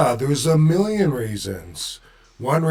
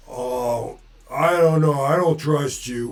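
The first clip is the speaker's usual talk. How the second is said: put-on Boston accent; 3 semitones higher, 5 dB louder than usual. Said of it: "put his accent in when I remember him talking".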